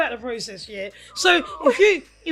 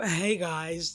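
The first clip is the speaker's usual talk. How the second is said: imitating Michelle; 7 semitones lower, 5 dB quieter than usual. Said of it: "Sound like Michelle now".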